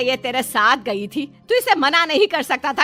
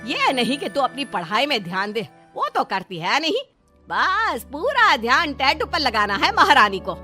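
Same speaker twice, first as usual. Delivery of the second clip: mother-in-law's stern lecture; exasperated nagging, not shouted; flaring up. Acted. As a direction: scold her with a touch of anger. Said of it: "ज्यादा भड़क जाती है".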